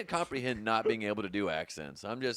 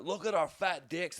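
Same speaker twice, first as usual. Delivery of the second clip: higher-pitched put-on Scottish accent; mock Scottish accent; 4 semitones higher than usual. Scots in little dresses showing off, mock Scottish accent. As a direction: crow it like a cheeky Scot. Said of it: "were like".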